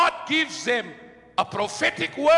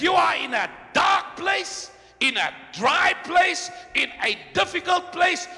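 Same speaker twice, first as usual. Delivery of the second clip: full-force preaching. Acted. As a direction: drive each line home to the congregation.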